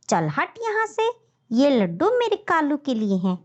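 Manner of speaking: snarls then shoos them off; harsh stepmother voice; wicked stepmother. Acted. Stepmother shooing children.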